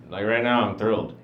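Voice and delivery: unexcited, boring-voiced claim of excitement; deadpan thrilled. Shown as a demonstration. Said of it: "hard to tell when I'm excited".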